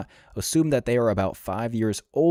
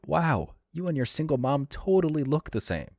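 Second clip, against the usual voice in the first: mocking high voice; 8 semitones higher than usual. Sarcastic mock quote of onlookers.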